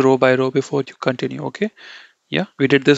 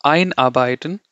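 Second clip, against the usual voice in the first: EIN emphasized at the front of Einarbeiten; stress on EIN. Shown as a demonstration. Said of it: "but I'm emphasizing ein".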